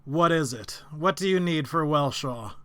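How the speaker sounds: flat mechanical golem voice; robot voice. Acted. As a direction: speak like a stiff construct. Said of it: "speak in a very sort of robotic voice".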